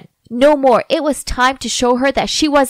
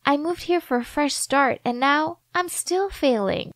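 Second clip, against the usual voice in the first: tearful and soft; 5 dB quieter than usual. Acted. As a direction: confess through tears, quietly. Stacy crying, confiding.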